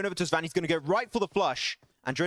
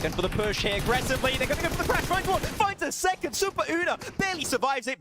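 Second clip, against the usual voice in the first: excited call; 8 semitones higher than usual. Real, not acted. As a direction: ride the action up high. Tense fight, live call.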